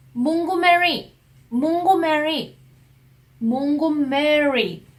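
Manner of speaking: 몽고메리 drawn out slowly, stressing both 몽 and 메리; rolled Korean-style pronunciation. Retold or imitated. Repeating the station name to a puzzled stranger, over-rolled. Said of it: "발음도 막 굴렸어".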